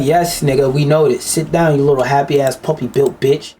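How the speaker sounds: weary dismissal. Pretend.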